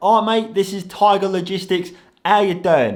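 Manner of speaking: put-on London accent. Retelling a delivery driver's phone call: mock london accent. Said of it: "who I've just mocked their voice".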